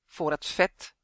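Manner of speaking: gruff goblin monster, lightly menacing; goblin king. A narrator's reading. Goblin king tells why he wants the elf, monster voice. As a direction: answer in a creature's altered voice.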